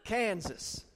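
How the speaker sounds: "Kansas" with a long, drawn-out first vowel; drawled Kansas. Shown as a demonstration. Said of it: "kinda get a drawl".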